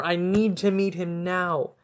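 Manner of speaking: loud, high, gushing fan demand; hammed-up eager fan shouting; mock excited outburst. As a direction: blurt it out like a starstruck fan. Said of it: "I could have been like".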